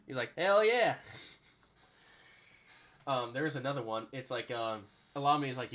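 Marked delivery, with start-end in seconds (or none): 0.4-0.9 high, loud mock enthusiasm; hyped reply. Player answering his teammate, loud high hyped impression. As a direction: imitate a pumped-up player.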